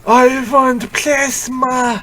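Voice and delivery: slow, high vampire voice with v for w; drawn-out hungry vampire, v for w. Acted. S2 voices Morbius craving blood.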